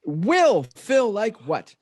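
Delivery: slow, with Will drawn out and punched; stress on Will. Real, not acted. Host correcting the question, heavy stress on Will. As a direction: lean hard on "Will", stretching it.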